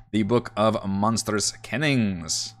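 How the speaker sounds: slow, careful sounding-out of "Kennings"; unsure pronunciation. Real, not acted. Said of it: "Am I pronouncing that correctly?".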